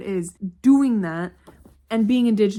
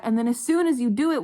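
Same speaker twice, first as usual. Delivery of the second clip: ordinary delivery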